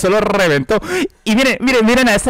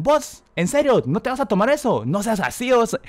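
mimicking pushy friends; 4 semitones higher, 5 dB quieter than usual. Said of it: "así de mal hablado me dicen".

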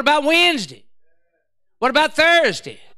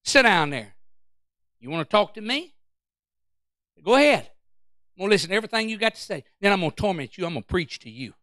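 calm rebuke to devil; 5 semitones lower, 6 dB quieter, faster than usual. Retold or imitated. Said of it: "Just say".

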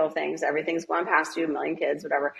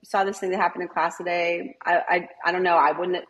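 gentle teacher check-in; 3 semitones higher than usual. Shown as a demonstration. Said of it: "And then say".

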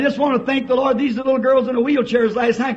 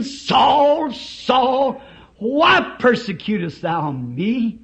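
voice from heaven; slower than usual. Acted. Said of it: "heard a voice saying".

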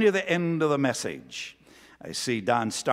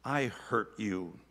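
tearful apology; 5 semitones lower than usual. Retold or imitated. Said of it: "with tears streaming down across his cheeks".

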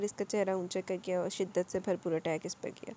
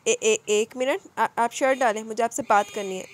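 hesitant, hurried stammer; 8 dB louder than usual. Acted. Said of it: "झिझक कर दूर होती जल्दी से बोली".

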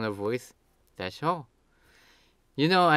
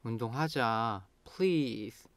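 pleading; 6 dB quieter than usual. Shown as a demonstration. Begging a friend to work out, pleading. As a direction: beg quietly, stretching the ending. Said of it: "Now you are pleading".

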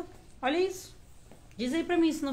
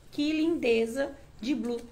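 hiccups breaking the words; hiccuping. Real, not acted. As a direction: talk through a hiccup. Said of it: "Peraí que eu tô com soluço".

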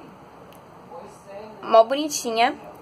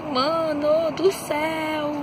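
admiração; 3 semitones higher, much slower than usual. Acted. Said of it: "eu fico".

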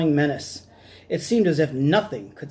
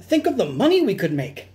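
greedy mouse; 4 semitones higher than usual. Acted. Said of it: "squeaked Doctor Varmint".

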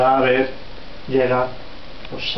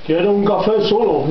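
raised pitch; 7 semitones higher, 4 dB louder than usual. Acted. Giant tries new voice.

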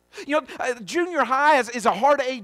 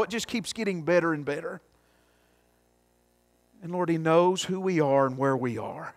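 lower-pitched, earnest prayer; 6 semitones lower than usual. Real, not acted. Pastor thanking the Lord before the congregation, in prayer.

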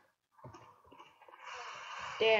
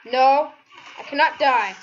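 loud desperate protest; desperate shout; 6 dB louder than usual. Real, not acted. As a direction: shout it like it's life or death. Desperate plea during fight.

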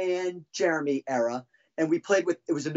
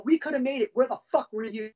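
angry accusation; 5 semitones higher than usual. Retold or imitated. Acted quarrel with late bandmate.

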